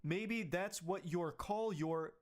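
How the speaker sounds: hammed-up whiny man reading his texts; high mocking whine; mock angry boyfriend. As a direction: squeal the censored rant like a sulking kid.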